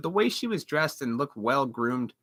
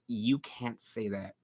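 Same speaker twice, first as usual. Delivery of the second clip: mocking uppity women; 6 semitones lower, 9 dB quieter, slower than usual. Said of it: "uppity white class women goes".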